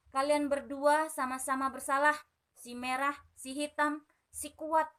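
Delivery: firm royal advice, only lightly voiced; advising king. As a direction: counsel the two like a fatherly king. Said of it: "nasihat Raja Jangkrik".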